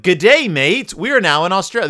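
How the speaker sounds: loud, bright Aussie greeting; hammed-up Australian tourist; Australian accent.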